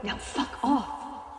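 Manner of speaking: slow, hushed, breathy curse; cold dismissal. Acted. Dismissing Phobos coldly.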